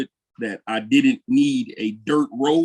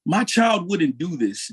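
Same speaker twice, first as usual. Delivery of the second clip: slow, raised-pitch protesting parent; parent's drawn-out, higher-pitched denial; mock parent in denial; 5 semitones higher, slower than usual. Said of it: "sounded like one of them parents".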